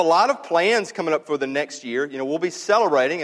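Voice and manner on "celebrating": celebrating given a little extra weight; celebrating said distinctly, as the key word; stress on celebrating. Real, not acted. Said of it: "I emphasize that word".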